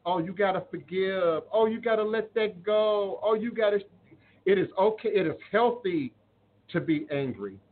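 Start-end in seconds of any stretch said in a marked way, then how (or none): 0.1-3.8 a mild mock of preachy advice; mocking quote. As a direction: lightly parody the people who say "just forgive". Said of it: "Don't let anybody tell you".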